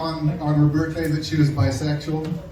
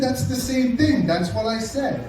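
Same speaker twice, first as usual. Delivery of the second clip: slow, higher exasperated protest; exasperated retort; 6 semitones higher than usual. Retold or imitated. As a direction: plead that it's obviously the same.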